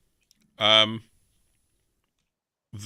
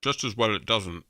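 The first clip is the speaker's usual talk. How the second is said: talking with mouth full; words round a bite of food. Real, not acted. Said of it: "I probably shouldn't talk with my mouth full".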